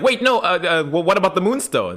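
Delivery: high, stammering mock panic; flustered Elena. Elena stalling Elijah, high and flustered stammer. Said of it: "Elena's like".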